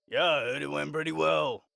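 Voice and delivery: lightly voiced grumbling local; grumbling passerby. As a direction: grumble a casual reply. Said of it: "grumbling words about".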